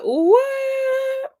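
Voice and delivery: very high, drawn-out "what"; high-pitched stunned reaction; mock shock. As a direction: squeal it in exaggerated disbelief. Acted shocked reaction to the clip.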